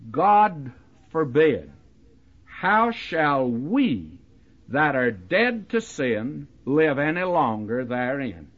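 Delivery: slow, weighty reading of the verse, with pauses between phrases; solemn scripture reading. Shown as a demonstration. Preacher reads the verse aloud to his listeners, slow and solemn. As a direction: read it out slowly to the congregation, letting each phrase land. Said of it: "here it is".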